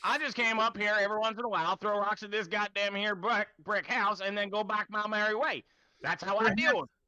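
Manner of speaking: put-on ranting old man, high and loud; loud, exasperated old-man outburst; too loud. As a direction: rail at them like a riled old-timer. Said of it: "perhaps lower your voice a bit".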